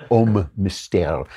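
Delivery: slow, careful French pronunciation of Homme Mystère; French accent. Shown as a demonstration. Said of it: "that's my bad French accent".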